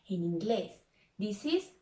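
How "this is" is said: very slow This is lion; teacher model sentence. Shown as a demonstration. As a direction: stretch each word for kids to copy. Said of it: "Repeat after me".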